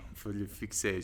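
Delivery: repeated softly and quickly with a laugh; a quick amused aside; petit rire gêné. Real, not acted. Amused quiet repeat of own word. (répété doucement en riant)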